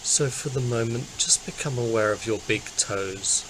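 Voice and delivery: calm, unhurried body-scan guidance; guided meditation. Acted. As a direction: guide listeners gently into relaxing, with long pauses.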